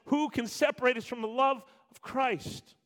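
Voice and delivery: high, loud ringing rhetorical question. Acted. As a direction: throw the question out to the room. Same question at full force.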